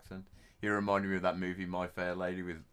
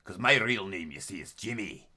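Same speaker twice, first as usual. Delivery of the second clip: Scottish; 4 dB louder than usual. Retold or imitated. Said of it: "In Scotland, they talk like this".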